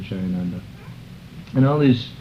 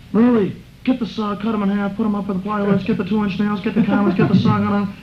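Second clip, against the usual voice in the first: rapid-fire orders pitched much higher; excited orders; 10 semitones higher than usual. Retold or imitated. Jayananda jumping up at night, calling orders to Murli, high and excited. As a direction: leap up and fire off jobs like the raid is on. Friend leaps up barking orders.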